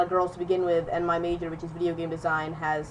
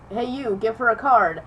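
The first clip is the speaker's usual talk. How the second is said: louder teacher's call to a student; retold teacher calling out; 3 semitones higher, 5 dB louder than usual. Teacher to a kid who didn't hear, retold call. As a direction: lightly imitate a teacher getting someone's attention.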